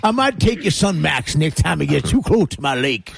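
cartoon dog voice. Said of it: "Are you Scooby Doo".

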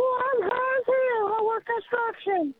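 high, slow goofy cartoon voice. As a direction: put on a silly redneck cartoon voice. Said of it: "But use a cartoon voice".

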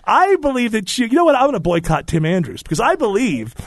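mock offended Southerner; Southern accent. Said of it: "parodying the accent".

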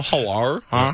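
honking mock Australian accent; Australian accent like goose. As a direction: honk an Australian hello like a goose. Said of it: "a Canadian goose".

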